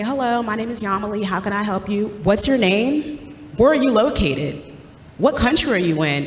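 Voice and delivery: brighter, lifted customer-service voice; call center greeting. Retold or imitated. Call center agent greeting a transferred caller, lifted polite voice. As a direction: put on the polite phone-agent voice. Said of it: "And I'll say".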